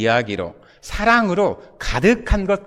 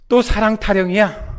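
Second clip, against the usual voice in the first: mildly voiced jaded grumble, pitched up; unimpressed; 4 semitones higher than usual. Listener reacting to yet another love sermon, unimpressed. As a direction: imitate a listener's lukewarm reaction. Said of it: "시큰둥 반응할 수도".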